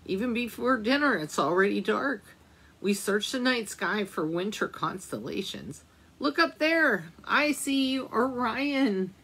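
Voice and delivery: gentle storybook reading aloud; reading to children. A narrator's reading. Teacher reading a winter book to children, gentle storytelling. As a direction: read it like a picture book for little ones.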